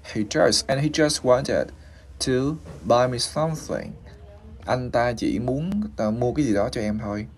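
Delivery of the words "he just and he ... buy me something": "he just wanted to buy me something" built up in pieces; broken into chunks. Shown as a demonstration. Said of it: "để mà mình lướt cái chữ S".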